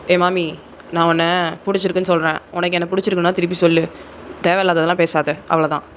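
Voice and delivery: brisk, curt acted demand; tense, irritated. Senior demanding the junior girl return his confession, tense and impatient. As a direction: press for an answer, mildly irritated. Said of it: "இங்க Jungkook செம்ம tension ஆயிடுறாரு".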